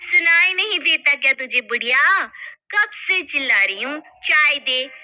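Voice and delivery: put-on sharp, contemptuous scolding of the old woman; rude scolding. Daughter-in-law scolding mother-in-law for tea, rudely.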